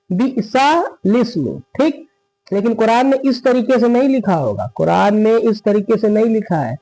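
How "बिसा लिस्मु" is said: "बिसा लिस्मु" as bi'sa, then lis-mu; correct joining. Shown as a demonstration. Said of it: "यहाँ नीचे आप लोग देख सकते हैं".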